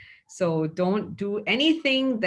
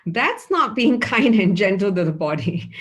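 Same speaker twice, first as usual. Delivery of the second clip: louder, said through a laugh; 7 dB louder than usual. Real, not acted. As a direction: laugh while gently scolding. Laughs at forceful joint cracking.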